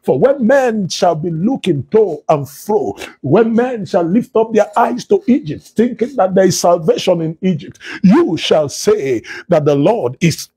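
declaiming the Lord's words in a steady, rolling preacher's cadence; prophetic preaching. Acted. Preacher prophesying to online listeners, solemn and declaiming. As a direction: proclaim it as a prophet over the congregation.

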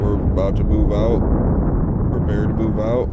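loud squad leader call; shouted orders. Real, not acted. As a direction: bark it out to the squad.

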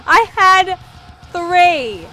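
high, loud cry of loss; dismayed yell. Real, not acted. Gamer yelling after losing three kills. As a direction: wail as the streak dies. Streak lost again.

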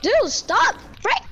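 frustrated. Real, not acted. Frustrated in fight.

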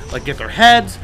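sarcastic. Real, not acted. Sarcastic slowed complaint.

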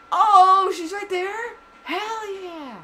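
high surprised delight; excited squeal. Real, not acted. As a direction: squeal high at a lucky find. Spots the girl in game.

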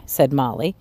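lively read-aloud storytelling voice; expressive children's story narration. A narrator's reading. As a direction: read it like a bedtime picture book. Reading picture book aloud.

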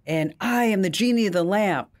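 a lightly booming genie announcement. Acted. Narrating the joke, genie's mild booming entrance. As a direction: mildly boom it like a grand genie. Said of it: "he booms".

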